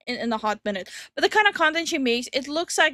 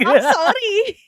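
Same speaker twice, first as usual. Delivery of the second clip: slow, louder "sorry" in an Indian English accent; 5 semitones higher, 9 dB louder, slower than usual. Real, not acted. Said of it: "The ten years of India strikes back".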